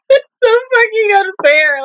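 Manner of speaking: high-pitched, whining complaint; whiny protest. Real, not acted. Viewer protesting a cliffhanger ending, high exasperated whine.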